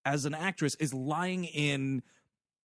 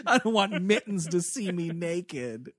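laughing mock quote. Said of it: "says Eric Siska taking a bath".

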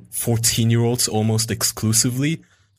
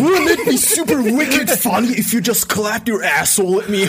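creepy wheedling voice; 11 semitones higher than usual. Retold or imitated. Mocking the predator.

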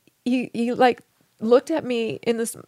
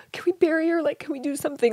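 higher, earnest pleading; 4 semitones higher, faster than usual. Retold or imitated. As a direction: beg him, voice lifted. Pleading in retold dream.

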